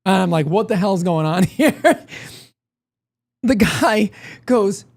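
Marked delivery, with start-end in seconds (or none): 0.5-2.1 slow disbelief breaking into a laugh; bewildered, laughing. Retold or imitated. Baffled customer retelling his odd lunch companion, laughing disbelief. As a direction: let laughter creep into the baffled question.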